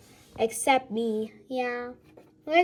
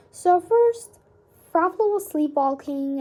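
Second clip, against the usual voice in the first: eager start; 5 semitones higher, 4 dB louder than usual. Acted. Child eagerly starts explaining.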